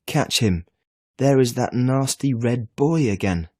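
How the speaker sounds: loud, urgent yell; excited shout. A narrator's reading. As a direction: call out to get him caught. Boy shouting at reflection.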